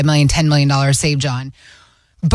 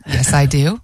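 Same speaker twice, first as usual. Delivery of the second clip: flat, dry, lower delivery; deadpan; 4 semitones lower than usual. Retold or imitated. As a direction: answer completely straight-faced. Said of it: "I deadpanned his face and I said".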